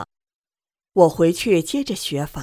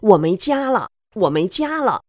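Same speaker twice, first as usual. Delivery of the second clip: frantic outburst; 3 semitones higher, 4 dB louder than usual. Retold or imitated. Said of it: "就像疯了一样".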